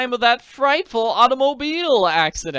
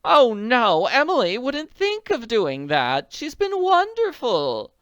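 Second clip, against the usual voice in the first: much higher and louder, tearful lady pleading; on the verge of sobbing; 13 semitones higher, 9 dB louder than usual. A narrator's reading. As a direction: lament like she is about to cry. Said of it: "began to sob into her handkerchief".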